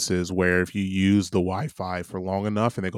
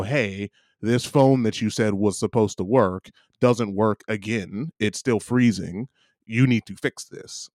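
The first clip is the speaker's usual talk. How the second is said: slow, deliberate demand; measured, emphatic imagined complaint; rehearsed complaint; slower than usual. Pretend. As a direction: spell it out word by word for the clerk. Rehearses a complaint to the service center.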